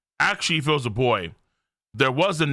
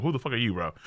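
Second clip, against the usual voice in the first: subdued retold shock; 2 semitones lower, 6 dB quieter, much faster than usual. Recalling what scared him, muted disbelief. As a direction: play the shock down, quietly. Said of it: "I'm like".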